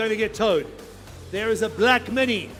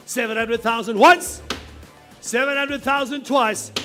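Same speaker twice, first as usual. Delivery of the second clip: louder call of the bids; auctioneer; 4 dB louder than usual. Acted. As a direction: announce each call to the room. Calling the final bids.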